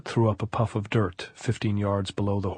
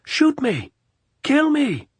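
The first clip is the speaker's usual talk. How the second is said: very high, loud challenge; frenzied shout; 6 dB louder, slower than usual. A narrator's reading. Captain on the boulder begging to be shot, frenzied shout. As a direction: scream the dare. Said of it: "he shouted".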